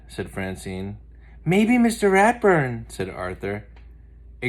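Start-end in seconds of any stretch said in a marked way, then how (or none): 1.4-2.9 Arthur's voice. Acted. Arthur's gloomy joke.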